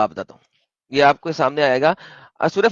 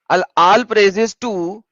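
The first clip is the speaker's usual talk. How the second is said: very slow reading; 3 semitones higher, much slower than usual. Shown as a demonstration. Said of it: "اب اللہ نہیں رہتا پیچھے".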